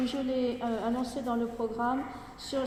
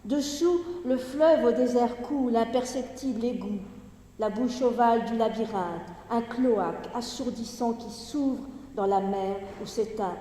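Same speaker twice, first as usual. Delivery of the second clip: projected, measured poetry recitation with falling line endings; Gedichtlesung; 3 dB louder than usual. Acted. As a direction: declaim the verse in phrases set apart by pauses. Reads the poem aloud.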